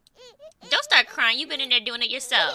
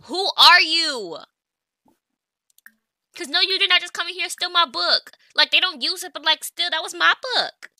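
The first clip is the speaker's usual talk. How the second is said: indignant rant; 8 semitones higher, 7 dB louder than usual. Pretend. Player scolding the Sim over her book, higher and louder. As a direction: scold them, offended.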